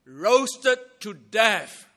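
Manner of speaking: dramatic slowed-down stress on roasted to death; slow emphasis. Real, not acted. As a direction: lean hard on roasted to death so it sinks in.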